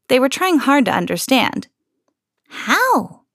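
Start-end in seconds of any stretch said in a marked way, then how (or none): 2.5-3.2 high pleading troll question. A narrator's reading. Trolls pleading with the girl, high voice. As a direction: beg to understand. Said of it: "they pleaded".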